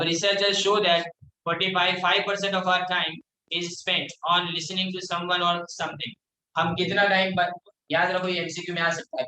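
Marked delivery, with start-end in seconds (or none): 0.0-6.1 reads the English line out word by word, very slow; slow classroom read-aloud; slow textbook reading. Acted. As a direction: dictate it slowly to the class.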